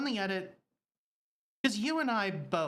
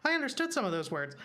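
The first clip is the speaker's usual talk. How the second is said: baffled; 5 semitones higher, faster than usual. Retold or imitated. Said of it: "everybody else on the show being like".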